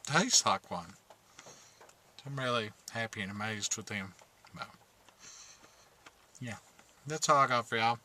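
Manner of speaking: talking while chewing candy; words round a mouthful of gummies; mouth full. Real, not acted. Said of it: "Sorry for talking with my mouth full".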